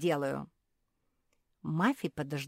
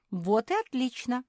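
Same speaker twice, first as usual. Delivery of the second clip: high, loud, pleased exclamation; acted burst of joy; delighted; 8 semitones higher, 8 dB louder than usual. A narrator's reading. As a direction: seize on the good news gladly. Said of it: "обрадовалась Мафи".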